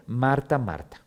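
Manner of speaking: primer "Marta" sube, segundo "Marta" baja más grave; "Marta, Marta" con vehemencia. Shown as a demonstration. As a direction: repetir "Marta, Marta" con pasión y cuidado. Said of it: "con pasión". (Jesús llamando "Marta, Marta" con cariño apasionado)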